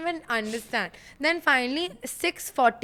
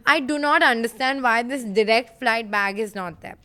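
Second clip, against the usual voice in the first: irritated. Retold or imitated. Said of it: "obviously my voice is getting raised".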